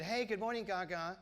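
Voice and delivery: put-on light Bronx accent greeting. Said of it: "in her Bronx accent".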